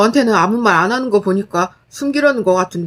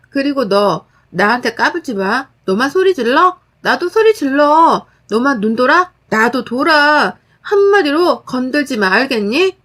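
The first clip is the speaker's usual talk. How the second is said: firm angry threat. Acted. Narrator threatens sister-in-law.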